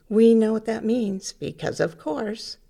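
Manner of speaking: mock-obvious explanation, punched at the start; sarcastic. Real, not acted. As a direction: say it as if it were obvious, with irony. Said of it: "I'm being sarcastic".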